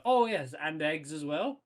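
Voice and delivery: casual afterthought. Pretend. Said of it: "turn back around and go".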